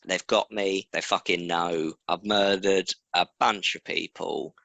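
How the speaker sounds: put-on lightly done Cockney accent; a hint of Cockney for the panicking killer. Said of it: "I'm doing it in Cockney".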